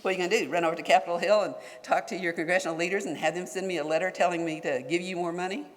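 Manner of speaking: mock the official's scornful challenge; mocking his tone. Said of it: "this is just his tone".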